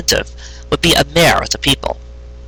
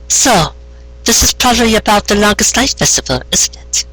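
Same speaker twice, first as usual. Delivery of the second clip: higher pony voice; Carrot Top voice; 9 semitones higher than usual. Acted. Carrot Top guessing Lyra's errand, higher voice. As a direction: lift it into the farmer's voice.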